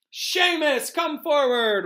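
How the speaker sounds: big high shout; roared order. A narrator's reading. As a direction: roar it like a teacher summoning a pupil. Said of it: "roared Professor Lupin".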